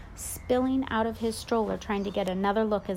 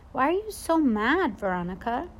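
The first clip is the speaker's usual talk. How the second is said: higher worried asking; boy asking his upset babysitter, higher pitched; anxious kid question; 4 semitones higher than usual. Acted. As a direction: ask her carefully.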